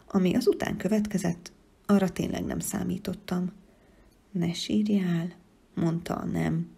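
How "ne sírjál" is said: gentle comfort. Acted. Teddy comforts crying child.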